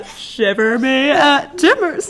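slow, hammy pirate growl. Pretend. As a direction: shiver me timbers, pirate style. Pirate phrase after accents talk.

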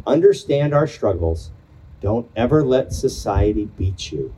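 pausing between short poetic lines; poem reading. Acted. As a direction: read each phrase like a line of verse. Rereads and continues the poem.

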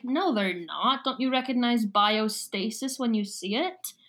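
lightly voiced Scottish villain; a hint of Scottish brogue. Villain correcting the kids about biostasis, light Scottish accent. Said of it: "with the Scottish brogue".

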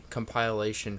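compilation said com-PILE-ation; "compilation" with a long i, like "compile"; mispronounced compilation. Real, not acted. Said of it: "It's also the wrong way".

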